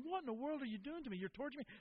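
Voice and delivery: high-pitched voice of an outraged dog; whining protesting dog. Acted. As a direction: protest like a dog being tortured. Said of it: "This dog starts screaming and whining".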